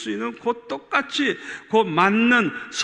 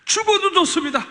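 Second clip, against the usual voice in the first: 죽어도 좋습니다 cried out high and loud; loud, high vow, 죽어도 hit hard; fervent cry; 12 semitones higher, 8 dB louder than usual. Retold or imitated. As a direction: shout 죽어도 with full devotion. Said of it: "그러셔서 제가".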